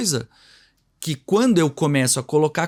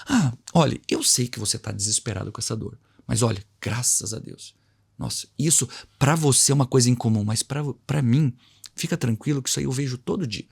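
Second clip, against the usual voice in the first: calm a scared patient down gently; tranquilizando o paciente; 2 semitones lower than usual. Shown as a demonstration. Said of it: "eu preciso tirar a força dessa dor dele". (médico tranquilizando o paciente com voz suave)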